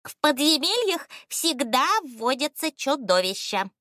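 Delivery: high, emphatic ostrich voice; convinced. A narrator's reading. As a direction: insist with full conviction, voice pitched high. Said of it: "убеждённо ответил Страус". (убеждённо, высоким птичьим голосом)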